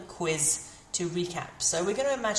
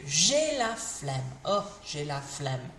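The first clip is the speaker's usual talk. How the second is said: lazy, can't be bothered; 4 semitones lower, slower than usual. Shown as a demonstration. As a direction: drag "J'ai la flemme" out, slow and unbothered. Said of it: "I can't be bothered".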